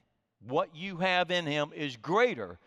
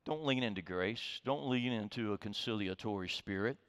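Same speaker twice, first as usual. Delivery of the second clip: tempting inner voice; 5 semitones lower, 6 dB quieter than usual. Pretend. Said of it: "your emotions are saying".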